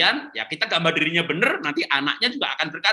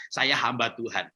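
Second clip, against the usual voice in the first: slow declaration; 4 semitones lower, 4 dB quieter than usual. Shown as a demonstration. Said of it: "ibu-ibu harus berkata begitu".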